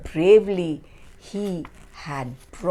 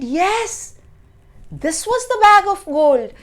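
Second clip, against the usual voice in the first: tag; 13 semitones higher, 6 dB louder than usual. A narrator's reading. Overjoyed mother recognises the gold.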